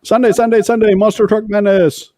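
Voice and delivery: booming high announcer hype; monster truck ad. Pretend. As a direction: shout it like a monster truck commercial. Mock ad to test the echo.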